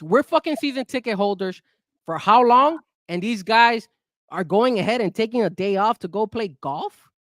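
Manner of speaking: real anger at the team, pushing through; upset rant. Real, not acted. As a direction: vent the frustration for real. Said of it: "I'm sorry I'm getting upset".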